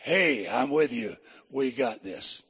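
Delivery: calm promise of company; lightly voiced Lord. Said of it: "Whenever the Lord said".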